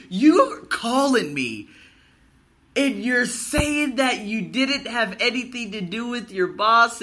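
loud, high, slow furious retort; angry retort. Retold or imitated. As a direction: hurl the accusation back, dragging every word. Confronting the lying lady on phone.

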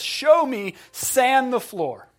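loud, high sensei command; retold shout. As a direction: call out the order high and drawn out. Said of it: "He shouts at him".

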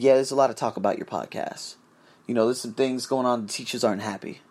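a boss quietly passing on bad news; hushed boss warning.

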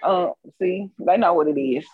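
talking with food in mouth; chewing between words; chewing while talking. Real, not acted. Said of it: "I'm trying to eat on the clock".

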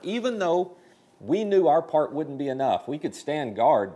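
emphatic preaching. Real, not acted. Pastor urging the congregation, loud emphatic preaching. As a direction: preach it hard, building to a climax. Pastor stressing Nehemiah's point.

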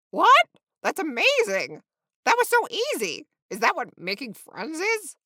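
high, loud, overjoyed outburst; giddy, amazed excitement; thrilled flamingo. A narrator's reading. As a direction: squeal with delight at a new friend. Flamingo thrilled to have friend.

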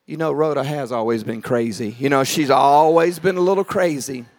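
low, condescending dismissal; dismissive aside. Retold or imitated. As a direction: drop low and write her off as crazy. Doubters dismiss Rhoda after the loud prayer.

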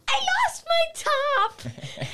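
high, loud mock cry from a swimmer; hammed-up shout for help; imitated panicked cry. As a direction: call it out high, then drop on the last word. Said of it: "she was like".

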